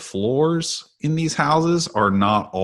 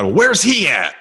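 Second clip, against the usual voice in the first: calling out; 10 semitones higher, 5 dB louder than usual. Retold or imitated. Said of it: "Yells out for my dad".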